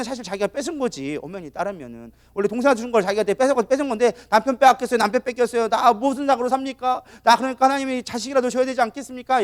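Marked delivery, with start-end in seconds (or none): 4.3-9.4 higher-pitched mock plea to God; wronged complaint. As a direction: act out an aggrieved wife praying. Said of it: "맨날 억울한 거야". (억울하게 따지듯 하소연)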